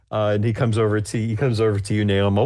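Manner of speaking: ordinary talk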